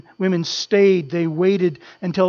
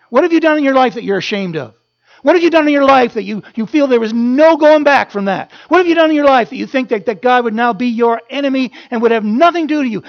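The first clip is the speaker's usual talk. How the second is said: louder, faster, rising challenge; urgent preaching; 4 semitones higher, 6 dB louder, faster than usual. Real, not acted. Preacher confronting the congregation, loud and fast. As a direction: press the question home, building.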